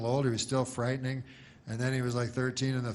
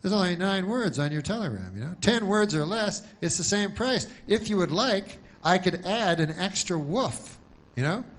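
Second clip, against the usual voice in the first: telegram clerk; 6 semitones higher than usual. Retold or imitated. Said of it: "he goes".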